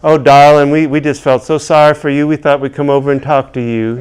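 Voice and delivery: lightly voiced sweet Southern lady; a hint of a genteel old Southern woman. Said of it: "they're Southern genteel little women".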